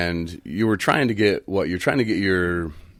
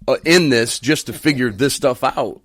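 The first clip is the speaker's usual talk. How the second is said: louder, higher mock rant about paperwork; retold angry rant; 4 semitones higher, 4 dB louder than usual. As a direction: rant like a fed-up man on the phone. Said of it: "you know, "Well".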